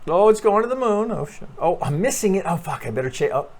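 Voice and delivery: mock excited trader yelping as price flies; panicky breakout trader. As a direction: play the trader chasing a rocket. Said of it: "Breakout traders".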